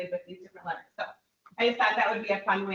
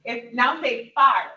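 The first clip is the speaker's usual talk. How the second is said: slow clear drill prompt; 8 dB louder, slower than usual. Shown as a demonstration. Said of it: "these ones are tricky".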